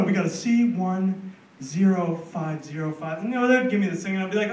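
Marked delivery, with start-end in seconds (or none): 0.0-3.2 slow patronizing. Retold or imitated. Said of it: "They would talk slower".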